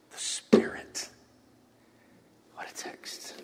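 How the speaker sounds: breathy awed whisper. Acted. Pastor finishing the reading, an awed whisper. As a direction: let it fall to a hush. Hushed close of scripture.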